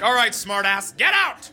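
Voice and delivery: a quick jab, then a high yelled get out; retold teacher kicking the smartass out, mock yell; mock angry teacher. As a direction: play the fed-up teacher throwing him out. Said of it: "she was like".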